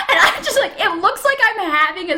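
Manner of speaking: high-pitched, laughing retelling. Real, not acted. Telling how it looked like a seizure, laughing. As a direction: keep talking through the laugh. Laughing after her own whoop.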